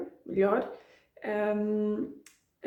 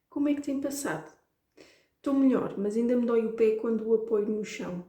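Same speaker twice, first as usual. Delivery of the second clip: formal dialogue demo; faster than usual. Shown as a demonstration. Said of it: "I'm being formal".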